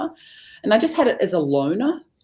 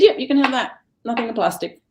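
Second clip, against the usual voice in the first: laughing reply; 6 semitones higher, 5 dB louder, faster than usual. Retold or imitated.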